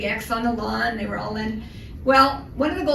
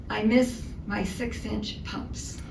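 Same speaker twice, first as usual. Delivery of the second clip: wistful; 7 dB quieter, much slower than usual. Retold or imitated. Sad amputee voiced.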